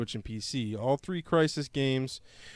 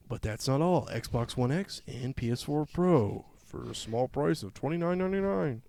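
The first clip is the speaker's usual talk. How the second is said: infomercial voice. Pretend. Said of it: "It sounded like an infomercial".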